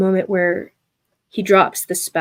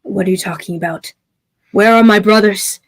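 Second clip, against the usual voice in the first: angry demand; 5 dB louder than usual. Acted. Brother rejects plea angrily.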